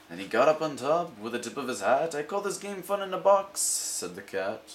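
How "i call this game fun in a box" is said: showman cat. Acted.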